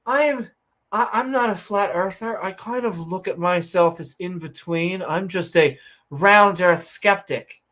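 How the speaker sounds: imitating a hedging flat earther; mock conspiracy theorist. Mocking a conspiracy theorist who hedges, lightly voiced. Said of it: "Then they say".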